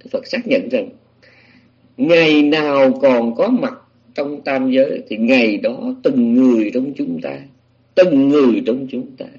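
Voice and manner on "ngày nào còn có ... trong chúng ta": slow, weighty pronouncement of a truth; emphatic pronouncement. Real, not acted. Teacher relaying the Buddha's confirmation to listeners, slow and emphatic. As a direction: drive the truth home, drawing the words out.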